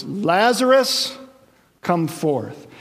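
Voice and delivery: slow drawn-out call on Lazarus; called out loud. Acted. Jesus calling the dead man from the tomb, drawn out. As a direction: stretch the name Lazarus like a summons. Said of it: "he cried out in a loud voice".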